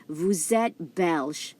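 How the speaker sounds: "Vous êtes belge." slow, linking the s of vous into êtes; slow French vous êtes. Shown as a demonstration. Teacher modelling the plural form slowly. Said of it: "So you use this one".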